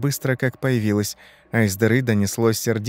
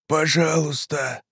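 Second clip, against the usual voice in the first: slow, higher rasping plea; hoarse plea; 4 semitones higher, slower than usual. A narrator's reading. Rotting man in armchair begs Ivan, hoarse. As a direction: croak it out, drawn out. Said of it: "прохрипел он".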